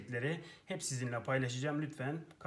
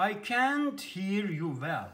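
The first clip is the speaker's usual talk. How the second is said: mildly raised; 4 semitones higher, 4 dB louder, slower than usual. Shown as a demonstration. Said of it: "Sizi iyi duyamıyorum".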